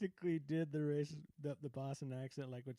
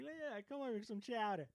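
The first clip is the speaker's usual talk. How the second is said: higher-pitched mock Boston mother; Boston mom accent; 5 semitones higher, 4 dB quieter than usual. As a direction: play a Boston mom calling you over. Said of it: "my Boston mom is just like".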